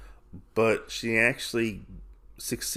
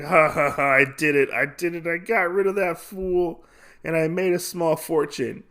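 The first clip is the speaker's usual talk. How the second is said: lightly acted gloating, raised pitch; retold gleeful gambler; 6 semitones higher than usual. Gambler alone after fooling everyone, lightly voiced glee. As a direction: crow over the win with a mock laugh.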